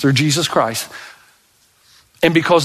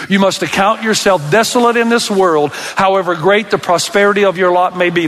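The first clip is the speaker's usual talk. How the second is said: recited together; 4 semitones higher than usual. Shown as a demonstration. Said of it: "Let's say it together on the count of three".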